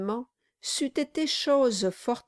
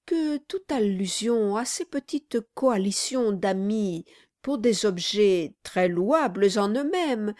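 confiding lawyer; 3 semitones higher than usual. Acted. Brass confides.

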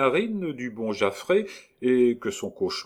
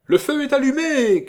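high, ringing tenor call; clear tenor shout; 8 dB louder than usual. Acted. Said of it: "cria le clair ténor de Cascadin".

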